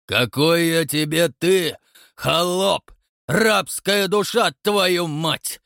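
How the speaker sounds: slow, high, loud yell; terrible bellow. A narrator's reading. Count bellows at the watchman in a terrible voice. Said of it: "завопил ... страшным голосом".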